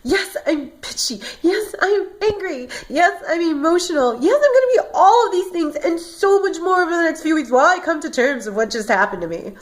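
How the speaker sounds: tearful retort. Retold or imitated. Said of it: "like I told my best friend".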